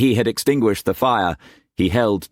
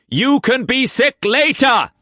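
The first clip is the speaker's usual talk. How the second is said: high, loud, vicious; venomous shout; 4 dB louder than usual. A narrator's reading. Cullum venomously shouting at Tess, furious. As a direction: snap at her. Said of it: "the venom in Cullum's voice".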